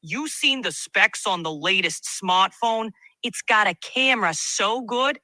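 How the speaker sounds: put-on a light Brooklyn accent, casual; lightly voiced Brooklyn tech guy. AI asked for a Brooklyn accent, light Brooklyn. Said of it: "now switch to a Brooklyn accent".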